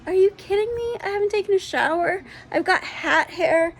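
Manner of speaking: high, laughing protest; laughing disbelief. Retold or imitated. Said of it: "I just start laughing at her and I'm like".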